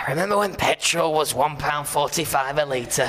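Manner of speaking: put-on old man voice. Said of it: "Do we need to sound older in our voices?".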